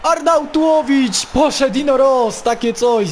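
loud, high shouted play-by-play; excited commentary. Real, not acted. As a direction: yell the attack as it breaks.

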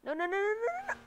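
loud, high, rapid string of no; loud dismayed protest; frustrated no no no. Real, not acted. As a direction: panic as the car gets away. Losing the race.

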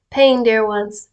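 slow, weighted PAIN; deliberate, drawn-out address; slowed-down emphasis. Real, not acted. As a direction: stretch out the word Pain as you read. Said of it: "and slows down and gets louder sometimes".

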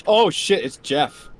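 sudden high alarmed yelp; panicking gamer. Real, not acted. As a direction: panic as the monster appears. Monster Jeff appears.

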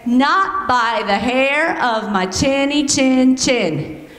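slow, drawn-out pig refrain; pig line demo. Shown as a demonstration. Teacher showing kids the pig line, slow. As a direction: model the line for the kids to copy. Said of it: "you guys are gonna say".

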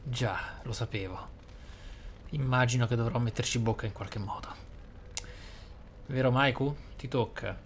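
ordinary talk, nothing marked

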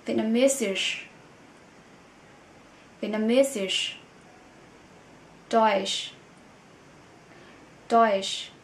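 each language name said slowly, then repeated; model word list. Shown as a demonstration. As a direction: read the list for learners to repeat. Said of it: "Ví dụ đó là".

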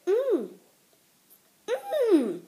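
humming while chewing marshmallow; closed-lip mm with food; mouth full, chewing. Real, not acted. Seen 0: Bites marshmallow at -2, then chews with closed lips, holding the rest.

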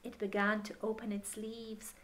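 gentle picture-book reading voice; story narration. Acted. Reading the picture book aloud to a child, gentle storytelling. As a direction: read it to children at bedtime.

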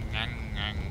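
low nasal chomping noise; munching sound made with the mouth; imitated gnashing. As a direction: mimic teeth gnashing. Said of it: "you gnash".

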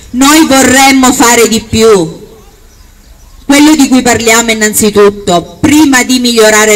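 booming balcony speech. Acted. Rally speech in the town square.

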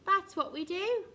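surprised dragonflies explaining themselves. A narrator's reading. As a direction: protest with lifted voice. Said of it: "said the dragonflies in surprise".

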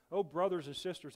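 woman greeting the congregation with glee; excited testimony. Acted. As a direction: burst out with delight. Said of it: "she said".

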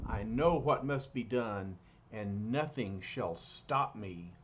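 a grim vow from a dark stranger; brooding villain resolve; ominous alien figure. Acted. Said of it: "He thinks".

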